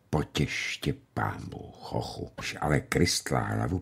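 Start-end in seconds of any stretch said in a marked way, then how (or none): 0.1-2.3 put-on hushed, breathy whisper of a shocked old woman; barely voiced, trailing prayer. A narrator's reading. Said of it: "a tiše zašep".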